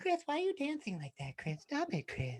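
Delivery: high, gentle put-on voice, light lisp on s. Redoing a bit someone else performed, very soft voice with slight lisp. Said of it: "you have to get really soft".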